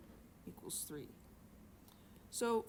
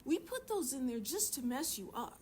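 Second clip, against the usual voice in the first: higher, teasing mock admission; mock confession; 5 semitones higher than usual. Teacher joking to students about trick questions, mock confession. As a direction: pretend to own up to a trick. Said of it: "No, we didn't".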